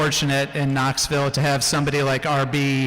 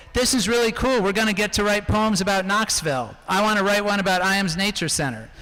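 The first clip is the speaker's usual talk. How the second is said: lightly voiced son, higher pitched; son's excited quote; 5 semitones higher than usual. Parent quotes son home from school about the poetry project, lightly voiced, higher. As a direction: lift the voice a little for a keen schoolchild's words. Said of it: "Rex came home from school".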